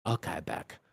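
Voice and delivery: a touch of mock sadness; sadly. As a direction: mumble it dejectedly. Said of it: "I said sadly".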